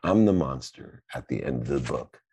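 gentle contented Grover; happy Grover. Retold or imitated. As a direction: purr it like a cuddly monster. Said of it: "he says".

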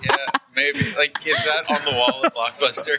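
tinny broken mic; tin can phone. Real, not acted. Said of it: "sounds like he's talking through a tin can".

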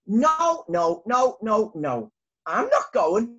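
high, stubborn little bee voice; Arthur's refusal. Acted.

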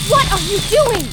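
loud, high outraged yell; outraged shout. Acted. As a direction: shout them down in horror. Companion cutting the queen.

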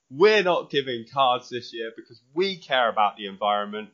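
lightly voiced cheery Santa greeting; bright festive message voice; jolly ho ho ho. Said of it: "give our lovely listeners an example".

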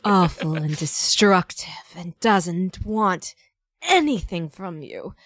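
slow, drawn-out put-down; measured and withering; deliberate. Real, not acted. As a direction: spell it out slowly, word by word. Describing her goddess character after imitation.

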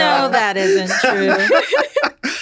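slow, laughing protest. Real, not acted. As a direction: laugh it off teasingly. Teasing denial among laughing hosts.

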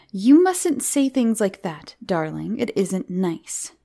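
slow, measured telling-off; gently but firmly correct a child; mother reproving. Acted. Mummy corrects Miranda's bad language, slow reproof.

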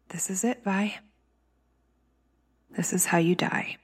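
low, hushed, defeated; despairing whisper. Acted. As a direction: whisper your own doom. Fuel nearly gone, despair.

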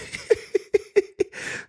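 silent high-pitched wheeze of laughter; breathless squeak of a laugh; high wheezing laugh. Real, not acted. Laughing at a sighing soldier, breathless wheeze.

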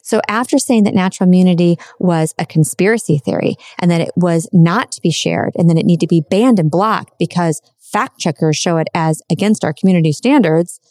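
ordinary talk, nothing marked

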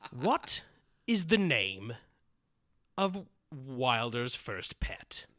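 slow whispered riddler; scary riddle voice. Pretend. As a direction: creep the question out in a whisper. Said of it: "I'm just gonna switch characters here".

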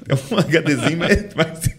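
high-pitched laughter through the words; laughing. Real, not acted. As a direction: giggle your way through the joke. Joking about tiny brain capacity.

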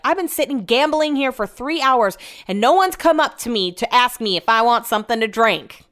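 imitated Southern woman, starting high; indignant Southern complaint; Southern accent. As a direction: gripe in a put-on Southern accent. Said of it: "She has a Southern accent".

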